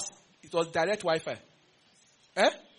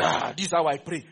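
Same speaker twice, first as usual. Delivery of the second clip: mock prayer warrior; 3 semitones lower, 4 dB louder than usual.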